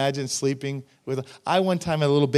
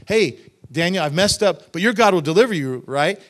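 breezy, louder assurance with a quick tag; casual, confident; 3 semitones higher, 7 dB louder than usual. Retold or imitated. King breezily assuring Daniel he'll be fine, casual and confident. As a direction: toss it off loudly as a sure thing. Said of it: "He's not saying it like".

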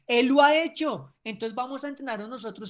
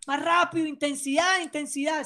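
urging call; 5 semitones higher than usual. Shown as a demonstration.

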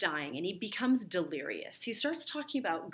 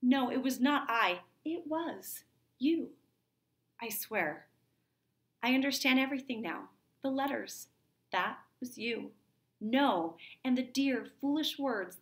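raised, earnest stage voice pleading and accusing; acted play dialogue; 6 semitones higher than usual. Teacher acting out the lovers' denial scene, heightened stage voice.

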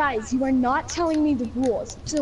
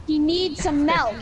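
slow, drawn-out imitation of the demo; copied meme line; slower than usual. Shown as a demonstration. Friend copying as told, slow meme delivery. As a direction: repeat it slowly, stretching the words. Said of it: "Say it like that".

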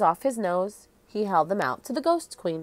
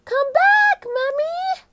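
high, loud call across the tomb; 8 dB louder, slower than usual. Acted. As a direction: call out to her, pleading. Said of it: "Annie called".

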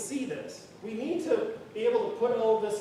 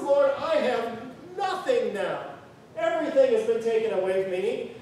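crying to the Lord; 2 semitones higher, 6 dB louder than usual. Acted. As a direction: beg the Lord, nearly sobbing. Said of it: "he cries to the Lord".

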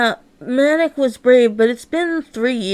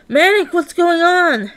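raised, urgent question; alarmed interruption; 6 semitones higher than usual. Acted. Companion interrupting Manic's song, alarmed. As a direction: break in with rising alarm.

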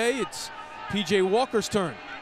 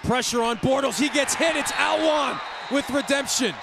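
excited play call; 4 semitones higher than usual. Real, not acted. Sack call.

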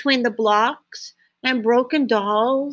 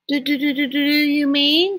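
excited stammer; 3 semitones higher than usual. Acted.

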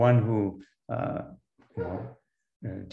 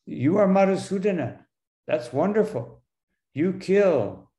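raised pitch, lightly mocking praise; challenging; 6 semitones higher than usual. Arjuna hands Krishna the killing, challenging. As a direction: lightly act out daring a friend. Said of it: "he's challenging Krishna".

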